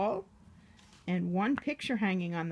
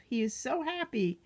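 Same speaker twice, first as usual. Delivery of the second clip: whispered delight. A narrator's reading. Reading to a child, a happy whisper. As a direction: hush it like a secret.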